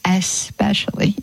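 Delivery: "Especially" broken after a long ess; correct pronunciation. Shown as a demonstration. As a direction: teach "Especially" for all to repeat, stretching the s. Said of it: "Let's say it".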